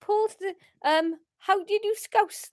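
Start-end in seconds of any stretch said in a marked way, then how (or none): 1.4-2.5 Scouse accent try. Shown as a demonstration.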